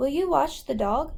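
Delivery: intonation rising at the end.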